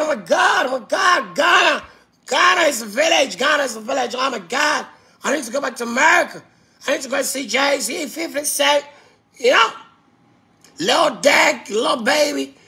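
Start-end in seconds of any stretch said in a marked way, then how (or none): 1.4-1.8 lightly put-on American accent; mock American accent, showing off. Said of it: "I wanna talk like American". 2.3-4.1 put-on Ghana said as kah-nuh in a light American accent, village as vi-lizh. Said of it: "I wanna talk like American". 4.2-12.5 lightly put-on American accent; mock American accent, showing off. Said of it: "I wanna talk like American".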